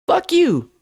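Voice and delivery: high-pitched mimicked jab; mock little voice tossing out an insult; imitated insult. Simon cursing at Jay, in mimicked high voice.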